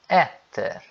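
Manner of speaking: "etter" with the final R sounded; R clearly pronounced. Shown as a demonstration. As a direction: land on the R at the end of "etter". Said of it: "eu tô pronunciando o R".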